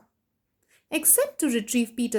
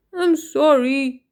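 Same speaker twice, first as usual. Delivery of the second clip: sniffled; 4 dB louder, slower than usual. Acted. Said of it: "he sniffled".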